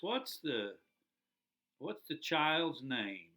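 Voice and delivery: slow, drawn-out priest's question; the priest asks slowly, a light imitation. Priest asking the parents the name, slow and lightly voiced. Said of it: "priest says".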